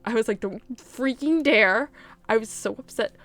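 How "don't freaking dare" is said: slow, stretched warning at the TV; mock warning. Fan retelling yelling at the TV, slow mock warning. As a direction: warn the show, dragging each word. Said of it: "I was screaming at the T V".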